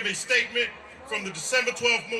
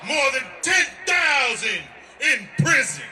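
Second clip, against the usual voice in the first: rally speech; 3 semitones higher, slower than usual. Real, not acted. Shouted rally statement.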